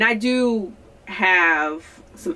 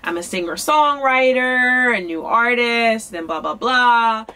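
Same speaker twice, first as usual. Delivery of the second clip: chirpy self-introduction; 2 semitones higher than usual. Retold or imitated. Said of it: "saying, like".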